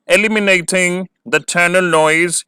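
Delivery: very slow, measured read-out of the question; slow dictation pace. Shown as a demonstration. Dictating heading.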